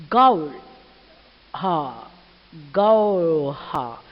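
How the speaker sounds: loud gull cry falling away low; mock bird screech, each call dropping off; mocking gull scream. A narrator's reading. Mother gull answers her begging chick, mocking cry. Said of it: "she screamed back mockingly".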